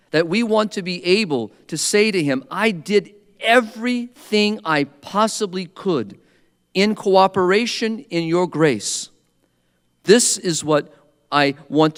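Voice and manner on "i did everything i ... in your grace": higher, slow and earnest, as if facing God; sincere offering to God. Retold or imitated. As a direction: speak it humbly up to Him, slowly. Speaker imagines speaking to God.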